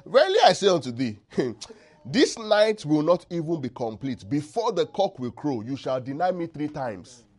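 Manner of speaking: Jesus laughing sarcastically at Peter; sarcastic laughing Jesus. Retold or imitated. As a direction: tease Peter with a sly laugh. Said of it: "just laughing that kind of sheepish laugh and just sarcastic laugh".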